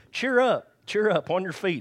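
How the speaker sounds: mock-enthusiastic cheering, high and loud; cheery crowd. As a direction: call out like a suddenly friendly crowd. Fickle crowd suddenly encouraging the man.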